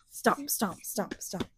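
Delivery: soft whispered stomps; whispering. A narrator's reading.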